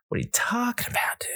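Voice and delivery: high breathy whisper of delight; amazed whisper. Real, not acted. Praising the burrito to viewers, awed whisper. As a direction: whisper it in awe of the food.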